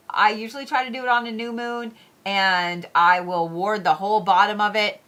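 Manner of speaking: talking through a yawn; yawning mid-sentence. Real, not acted. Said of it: "I'm so sorry I'm yawning".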